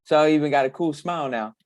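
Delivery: lisping through missing front teeth. Real, not acted. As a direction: talk with a gap where the front teeth are. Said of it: "I'm missing my front teeth".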